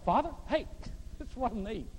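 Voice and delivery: casual, friendly prayer; plain talk to God. Shown as a demonstration. Pastor shows how he simply talks to his Father, casual and friendly. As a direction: talk to God like your dad. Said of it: "if he's my father, I just go".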